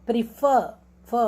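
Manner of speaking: प्रीफर with a long, strong फर; teacher isolates the stressed फ of प्रीफर. Shown as a demonstration. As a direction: lean on the फ in प्रीफर. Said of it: "फ पे जोर है".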